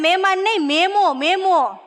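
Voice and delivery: મેમો, મેમો said slowly and firmly; correcting memo. Retold or imitated. Correcting her friend Babli, slow firm stress. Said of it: "મેં કીધું".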